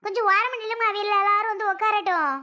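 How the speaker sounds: high, busy instruction to make room; high ushering call. Acted. Telling Amutha to make room for guests, high ushering call.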